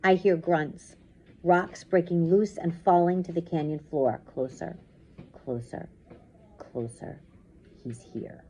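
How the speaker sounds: slow storytelling, fading toward the end; suspenseful story narration. A narrator's reading. Reads story aloud.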